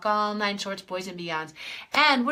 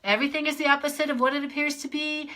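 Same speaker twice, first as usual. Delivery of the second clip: higher voice; 4 semitones higher, faster than usual. Shown as a demonstration. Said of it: "let's play with the crazy phrase".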